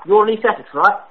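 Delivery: a prank caller faking British; put-on British accent. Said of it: "Sorry if my accent was in and out".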